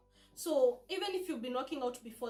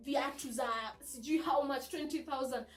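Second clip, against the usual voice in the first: excited mom-to-be; 3 semitones higher, 4 dB louder than usual. Retold or imitated. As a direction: play an overexcited new mother planning purchases. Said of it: "you know you're always excited".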